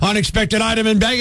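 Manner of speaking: mildly intense checkout announcement; intense machine voice. Retold or imitated. Retelling the checkout's barking to co-host, intense machine voice. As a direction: lightly imitate the barking self-checkout lady. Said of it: "in that intense voice".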